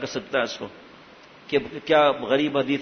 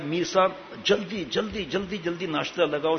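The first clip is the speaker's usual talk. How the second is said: imitating an impatient call for breakfast; urgent hurrying; 3 semitones higher, 4 dB quieter than usual. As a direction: hurry someone along, words repeated eagerly. Quoting master's hurried call for breakfast.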